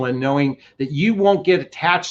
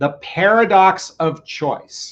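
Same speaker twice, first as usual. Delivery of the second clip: slow, measured, deliberate, unhurried delivery; 4 semitones higher than usual. Introducing a TED Talk's title: slow, deliberate title. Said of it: "I'm going to say it slowly".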